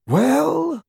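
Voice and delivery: high, drawn-out prompting "Well?"; murmured question. A narrator's reading. Dumbledore prompting Snape for news, murmured question. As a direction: let it rise as an expectant question. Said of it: "murmured Dumbledore".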